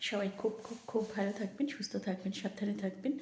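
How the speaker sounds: quiet sign-off near a sleeping dog; soft voice. Real, not acted. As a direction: keep it hushed and gentle. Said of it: "আমি আস্তে আস্তে কথা বলছি".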